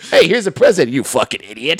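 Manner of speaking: mock snooty insult. Voicing the homeowner's insult.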